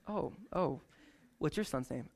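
low, soft, taken aback; awkward retreat. Pretend. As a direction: back off awkwardly and ask again. Awkward reaction, retry question.

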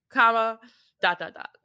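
dot, dot, dot said through a laugh; laughing ellipsis. Shown as a demonstration. Running through her steps as a list, laughing. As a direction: chuckle your way through dot, dot, dot. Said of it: "So I go exclamation point".

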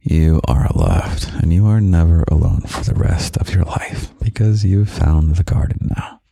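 normal talking voice

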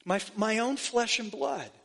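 Jesus tenderly claiming his brother. Retold or imitated. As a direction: say it gently to a dear brother. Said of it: "he says tenderly".

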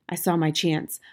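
usual speaking voice

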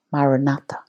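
Maranatha with all four syllables stressed alike; four even syllables. Shown as a demonstration. Teaching the Aramaic prayer word with even stress. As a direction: give Maranatha four equal beats. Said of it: "four equally stressed syllables".

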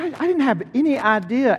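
put-on high, teary old man's voice; humble old farmer, voice high and moved; tearful old man. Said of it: "He said".

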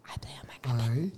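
quick, soft ASMR whisper. Shown as a demonstration. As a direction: whisper the model phrase quickly. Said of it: "you gotta whisper it".

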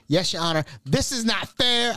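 high-pitched mock protest; imitating mom. Mom protests to the judge, in an imitated high voice. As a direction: plead like an indignant mother in court.

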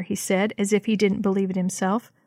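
usual speaking voice

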